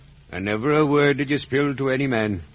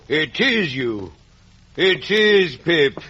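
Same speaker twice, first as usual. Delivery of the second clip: slow wondering; 4 semitones higher, slower than usual. Acted. Convict reveals himself to Pip.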